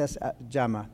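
softly voiced inner prompting; quiet inner voice. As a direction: voice the Lord's prompting hushed and low. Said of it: "el Señor me dice".

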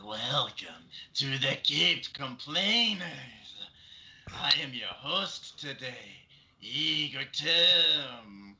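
slow, drawn-out hunchback voice; lightly voiced servant creature; Igor voice. Shown as a demonstration. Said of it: "Try doing it right now".

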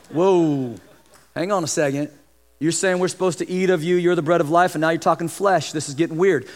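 low, hushed bewildered listeners; a low, wary murmur of doubters; baffled crowd. Pretend. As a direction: play the confused crowd muttering. Crowd voiced reacting to Jesus.

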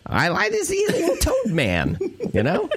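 giggling through the words; laughing. Real, not acted. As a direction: say it while cracking up. Laughing while describing Frog Boy.

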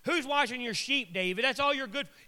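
acted-out belittling jeer; insulting. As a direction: needle him with mock questions. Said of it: "he starts insulting David".

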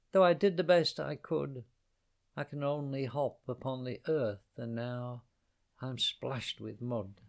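a weary little bird doing her best; tired little bird. Acted. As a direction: bird explains she can only hop, fading into mud. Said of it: "sang she".

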